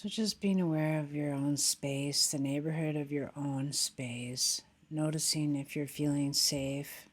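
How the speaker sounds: slightly subdued, even meditation voice; guided meditation. Acted. Teacher settling meditators in after the bell, guided meditation. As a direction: guide them gently into awareness.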